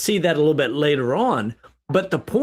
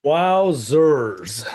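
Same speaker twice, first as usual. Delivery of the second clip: drawn-out, swooping WOWZERS in amazement; amazed reaction; 2 semitones lower than usual. Real, not acted. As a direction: let the wow stretch out, stunned. Reaction to the passage, first take.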